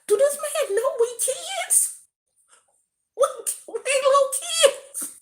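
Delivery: put-on high, squeaky child voice; mock childish disbelief; incredulous kids. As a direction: act like a stunned little kid. Kids' shocked reaction retold.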